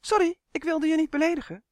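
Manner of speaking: hoog, gejaagd excuus van de elf; haastig excuus. Acted. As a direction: snel sorry zeggen, hoog. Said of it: "zei Uf vlug". (elf Uf verontschuldigt zich haastig bij de boze draak)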